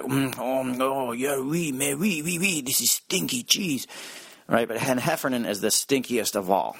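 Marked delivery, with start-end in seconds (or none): 0.0-3.9 put-on French accent. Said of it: "that they just like".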